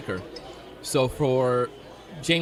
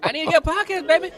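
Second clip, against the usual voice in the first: much higher, showman soul singer impression; 14 semitones higher, 5 dB louder than usual. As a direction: belt it like a soul showman hyping the crowd. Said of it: "my soul singer song".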